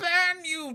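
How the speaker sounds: shrill scream, very high and very loud. Voicing Glem as a ball of light explodes outward: Glem yelling. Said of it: "as he just yells".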